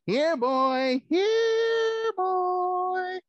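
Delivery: high, loud call to a dog. Acted. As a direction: call the puppy across the room. Calling a puppy puppet.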